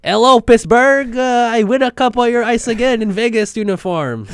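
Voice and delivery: high, hammed-up French-Canadian accent; Marc-Andre Fleury. Co-host voices the goalie greeting Pittsburgh, French-Canadian accent. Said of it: "great Marc-Andre Fleury impression".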